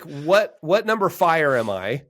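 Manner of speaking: high, mock-upset complaint; a hint of a grumpy comedian whining; upset guest.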